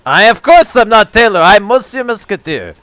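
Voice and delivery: indignant mock Quebecois accent; emphatic fake French accent. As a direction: protest as a put-on French-Canadian. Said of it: "Quebecois, okay".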